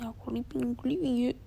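whispered then voiced mock of a breezy goodbye; mocking imitation. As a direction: mimic someone casually bailing out. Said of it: "si anjing". (menirukan dengan mengejek)

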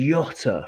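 Jota said with a Y sound, "YOT-a"; mispronounced Jota. Shown as a demonstration. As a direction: say the J of Jota as a Y, the mistaken way. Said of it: "they say Jota".

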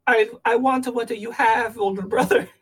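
slightly high cartoon voice; lightly voiced jealous little brother; Luigi impression.

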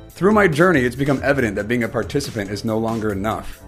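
measured podcast trailer read with weighted pauses; scripted intro read. Acted. Host confessing to listeners he lacks all the answers, scripted intro read. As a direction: deliver it as a scripted opening confession.

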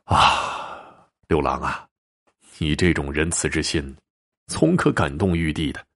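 soft, sighing praise; a touch moved, admiring; mild sigh of admiration for the ghost's kindness. Acted. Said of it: "徐某感叹地说".

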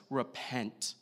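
retold stern preacher, slow and measured; understated stern call, each phrase falling and set apart. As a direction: deliver it as a restrained, stern warning. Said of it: "with a very stern voice".

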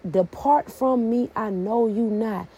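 slow, soft, solemn rejection; a hint of a solemn judge turning someone away; stern God. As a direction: say it gravely and slowly, as a final verdict. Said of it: "God's reply".

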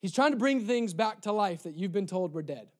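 usual speaking voice

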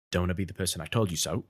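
a hint of a low, quick British film-star voice; Michael Caine. Guest shows a host his movie star impression, Michael Caine voice. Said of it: "I have one section which he says".

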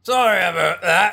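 put-on Harry Potter style British accent; mock accent. Co-hosts echo an apology in silly voices, mock accent.

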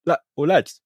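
high-pitched mock indignation; hammed-up boss ordering his lads about; raging crime boss. Crime boss on the phone to his henchman, mock raging. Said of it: "the Kingpin's raging".

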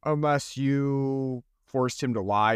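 slow, lightly voiced consoling man; mock earnest love interest. Retelling the hero comforting the divorcee, slow mild mock voice. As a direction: play the hero's gentle comeback, slowly. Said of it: "He's like".

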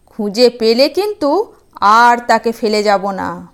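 threatening demon, only lightly voiced; a hint of a demon voice. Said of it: "সে বলছে". (হালকা দানবের গলা)

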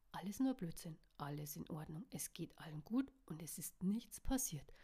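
hushed, whispered self-reassurance; whispering to herself. A narrator's reading. Caro soothes herself after a bad dream, whispering. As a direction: whisper it as if calming yourself. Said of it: "flüsterte sie sich selber zu".

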